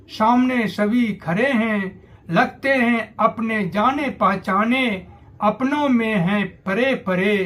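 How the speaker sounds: declaimed verse in measured phrases; declamatory Hindi poetry reading; rousing poem recitation. Acted. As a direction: recite it as a call to arms, line by line.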